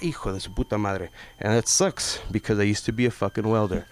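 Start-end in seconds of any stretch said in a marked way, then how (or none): 0.0-1.1 soft, muttered Spanish curse. Retold or imitated. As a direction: grumble under your breath at the lights. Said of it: "I'm like".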